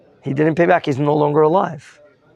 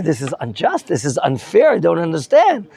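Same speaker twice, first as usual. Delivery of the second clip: lightly voiced protesting widow, rising higher as it builds; indignant claim; 3 semitones higher than usual. Teacher voices widow questioning her lost reward, mildly indignant protest. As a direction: plead the injustice, building into higher-pitched questions. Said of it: "maybe she's claiming".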